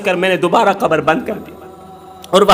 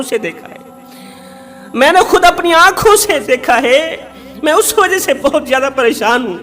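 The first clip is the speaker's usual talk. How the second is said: raised, ringing sermon voice; preaching at full force; 3 semitones higher than usual. Acted. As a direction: drive the warning home to the crowd. (زور دار خطابت)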